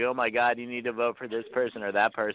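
ordinary talk

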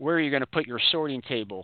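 acted sarcastic tone. Speaker retells her own remark to the people she lives with, retelling a sarcastic question. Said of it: "I sarcastically said".

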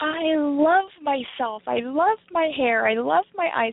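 put-on high five-year-old little-girl voice with exclamations. Retelling a little girl's words at the mirror: imitating a little girl screaming. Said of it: "screaming from her, from her lungs".

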